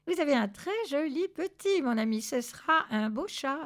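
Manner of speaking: flattering thug. A narrator's reading. Pinned thug compliments Zorbas, mildly flattering.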